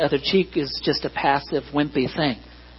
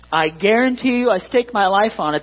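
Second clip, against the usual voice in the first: raised, fervent preaching; emphatic, fervent; 5 semitones higher than usual. Real, not acted. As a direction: stake your life on it. Emphatic vow.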